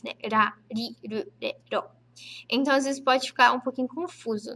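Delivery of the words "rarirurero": "Rarirurero" said slowly with a tapped r; Japanese r sounds. Shown as a demonstration. Teacher shows the Japanese tapped r to students, slowly. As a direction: tap each r in "Rarirurero", slow and even. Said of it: "a gente não tem esse som no português".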